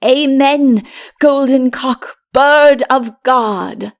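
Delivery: loud, fervent amen, slowing at the end; ringing hallelujah cry; joyful cry. A narrator's reading. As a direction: cry out in praise. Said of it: "cried Adam".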